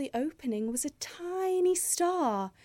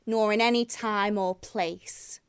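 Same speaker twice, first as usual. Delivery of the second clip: sneering. Acted. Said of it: "it sneered".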